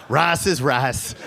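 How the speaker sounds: slow dad line broken by laughter; laughing dad quote. Retold or imitated. Comedian laughing while quoting his dad. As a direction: laugh through dad's line. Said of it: "He's like".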